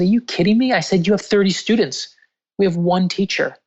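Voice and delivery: reenacting an insistent reassurance; incredulous protest. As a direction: protest as if it's absurd to doubt it. Retold emphatic protest to crying teacher.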